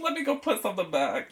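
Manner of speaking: high-pitched mock panic; mock alarm. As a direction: play alarmed at the bill, voice jumping up. Acted panic at grocery bill.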